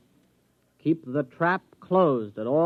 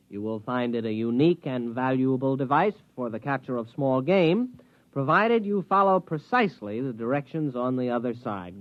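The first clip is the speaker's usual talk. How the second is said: reading a note aloud. Acted.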